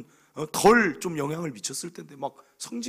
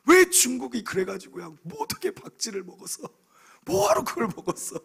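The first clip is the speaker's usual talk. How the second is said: higher, half-laughing mock scolding; mock rant; 7 semitones higher, 4 dB louder than usual. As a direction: replay the grumbling at China, hammed-up. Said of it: "제가 욕을 얼마나 했는지". (중국에 대고 투덜대는 흉내)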